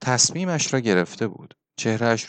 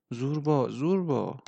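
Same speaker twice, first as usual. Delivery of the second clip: pleading; 5 dB quieter than usual. A narrator's reading.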